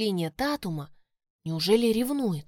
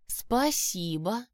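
confused; much slower than usual. Acted. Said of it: "растерянно произнесла я".

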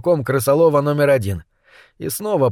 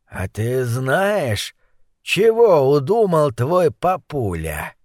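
menacing thug; slower than usual. Acted.

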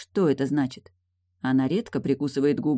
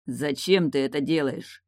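ordinary delivery, nothing marked

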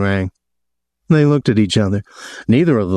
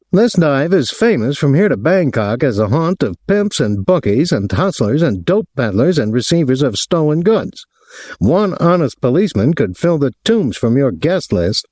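higher-pitched, mildly angry tirade; getting angry; 6 semitones higher than usual. A narrator's reading. Captain denouncing the hotel to its manager, getting angry. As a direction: accuse with rising irritation. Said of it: "Willie was getting angry now".

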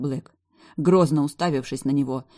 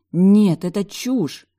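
loud, high outburst; shouting; 5 semitones higher, 9 dB louder, much slower than usual. A narrator's reading. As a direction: fling the denial out at him. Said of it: "выкрикнула я".

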